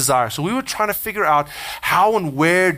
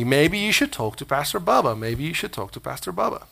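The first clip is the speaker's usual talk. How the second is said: retold nagging thought, fading softer; mild nagging; 3 dB quieter than usual. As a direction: repeat it like a thought that won't leave, trailing down. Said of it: "it kinda kept nagging at me".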